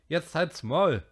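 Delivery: loud furious shout; angry snap. A narrator's reading. Jack going for Piggy, a loud angry shout. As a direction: shut him up.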